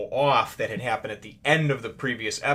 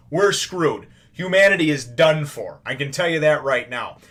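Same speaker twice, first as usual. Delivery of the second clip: exasperated, emphatic rant, louder on the verdict; griping; 3 semitones higher, 4 dB louder than usual. Real, not acted. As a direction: gripe about it with punchy, insistent emphasis. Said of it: "all griping aside about that".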